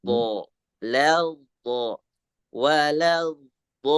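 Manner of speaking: light "la", then heavy, rounded "do"; drawn-out demo "wa, la, do"; thin into thick. Shown as a demonstration. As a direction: keep "wa, la" thin and thicken only "do". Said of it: "baru dimasukkan ke huruf dot yang tebal".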